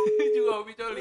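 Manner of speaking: laughing. Real, not acted. Laughing at contact list name.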